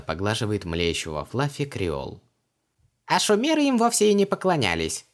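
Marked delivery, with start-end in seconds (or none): 3.1-5.1 much higher tiny squeak; squeaky Djinn. A narrator's reading. The little Djinn corrects Vanessa in her ear, squeaky. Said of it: "пропищал ей в ухо Джин".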